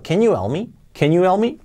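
"help" said almost as "elp"; "Can you help me" with a silent H in "help"; H nearly dropped. Shown as a demonstration. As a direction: run "you help" together without the H. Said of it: "casi la he omitido".

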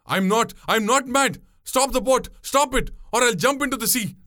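high, desperate outburst; frantic demand. A narrator's reading. Passenger threatening to jump overboard, frantic. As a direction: insist wildly, pitch way up.

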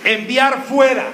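slow, deliberate call for the church to echo "Enviar fuera"; slow repeat-after-me. Shown as a demonstration. Preacher leading congregation to repeat, slow deliberate call. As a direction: lay out "Enviar fuera" slowly so they can repeat it. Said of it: "Diga conmigo".

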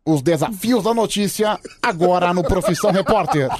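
lightly imitated TV reporter intonation; a hint of a news reporter's programme intro; mild mock-reporter delivery; Caco Barcelos. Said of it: "na entonação da voz dele".

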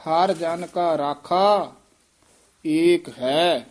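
deliberate, weighty recitation; slow emphatic reading. Shown as a demonstration. Teacher models the line slowly for the student. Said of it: "teacher models line after student".

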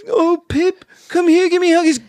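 silly high voice. Retold or imitated. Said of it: "It's like".

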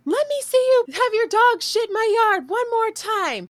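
high, loud threat; threatening the neighbor over her dog. Retold or imitated. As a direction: warn her off, menacing. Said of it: "threatening her".

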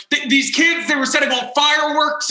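a touch of agitated tattling; lightly voiced uptight man. Uptight man complaining to police about the kids, mildly agitated. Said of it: "very uptight man".

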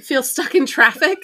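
laughing while echoing the joke. Real, not acted. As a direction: say it through a laugh. Repeats co-host's joke laughing.

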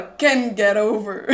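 slow, lightly voiced mock singer; a hint of the singer's delivery; imitating the singer. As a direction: drawl the line like the singer does. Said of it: "Que ele fala".

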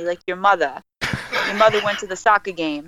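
North Jersey "mother" and "soccer" ending in an A; dropped R. Shown as a demonstration. Guest demonstrating Jersey talk, dropped R in "mother" and "soccer". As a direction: say "mother" as muh-thuh, "soccer" as sock-ah. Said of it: "drop the R and put an A".

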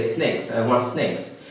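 "snakes" with long ay instead of short a; snacks as snakes. Retold or imitated. Teacher repeats the regional mistake, "snakes" with long ay for snacks. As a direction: say "snakes" where snacks is meant. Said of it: "they say snakes".

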